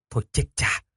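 breathless oh-no whisper; panicked whisper. Acted. Boy whispers in panic as mom calls. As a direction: whisper it in alarm. Mom comes home suddenly.

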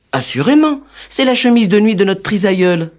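put-on serious girl voice. A narrator's reading. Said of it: "le plus sérieusement du monde".

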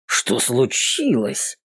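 slow, sneering question; snide. Acted. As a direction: ask it with a smirk. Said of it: "Ехидно бросает".

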